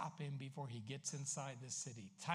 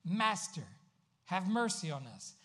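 lepers' cry; 3 semitones higher than usual. Retold or imitated. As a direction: cry out for mercy from a distance. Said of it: "And so they yell out".

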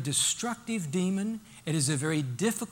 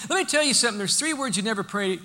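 ordinary delivery

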